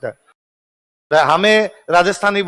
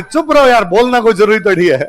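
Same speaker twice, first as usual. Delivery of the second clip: laughing hush; 2 semitones higher, 4 dB louder than usual. Retold or imitated. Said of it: "तो हमने".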